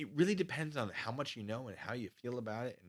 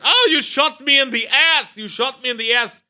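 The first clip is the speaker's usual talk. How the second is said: mock outraged yelp; 16 dB louder than usual. Drill sergeant hit by a blank, high loud mock wail. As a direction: wail it like you've been hit. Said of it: "and he's like".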